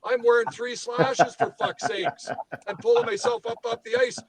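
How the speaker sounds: heated, high-pitched exasperated rant; worked up. Real, not acted. Beer-league player fuming to co-hosts about three lazy Leafs, worked up. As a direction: rant in real indignation, pitch riding high. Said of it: "I'm getting a little worked up here".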